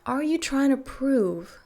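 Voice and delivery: whispered question. Real, not acted. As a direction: lean in and whisper the challenge. Pointed question to viewer.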